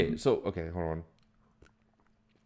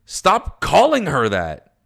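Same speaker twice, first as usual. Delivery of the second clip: stern loud order; 6 semitones higher, 8 dB louder, much slower than usual. Acted. Character scolding another character.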